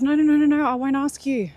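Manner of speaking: hammed-up frantic no no no, begging to stay; panicked pleading. Musa begs Khidr not to send him away, mock panicked. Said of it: "He was freaking out".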